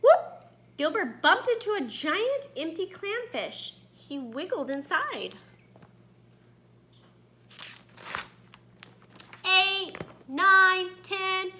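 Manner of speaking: put-on lively read-aloud to young children; story narration. A narrator's reading. Teacher reading a story to her students, lively read-aloud. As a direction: tell it like a picture book to the class.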